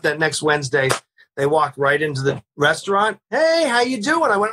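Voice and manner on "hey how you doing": raised-pitch, mock-cheery hello; hearty greeting. Cops walking into the restaurant, high hearty greeting. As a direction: play the cops sailing in for their payoff.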